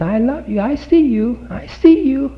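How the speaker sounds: put-on high, rising sing-song baby talk; mother cooing to baby. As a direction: coo up at the baby in the crib.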